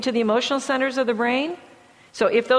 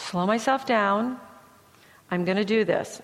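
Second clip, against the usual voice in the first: calm self-talk; 3 semitones lower, 5 dB quieter than usual. Shown as a demonstration. Student before a board exam, calming themself quietly. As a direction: breathe and talk yourself down gently. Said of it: "teach them to take a deep breath".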